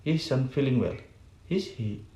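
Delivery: pause, then "Is he" drops in pitch; statement closed by a falling "Is he"; falling tag question. Shown as a demonstration. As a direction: let "Is he" fall away at the end. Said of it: "second and third that indicate the intonation is fall".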